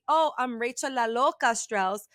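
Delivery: La Loca said with Spanish vowels and rolling; Latina intro. Retold or imitated. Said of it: "when I do say".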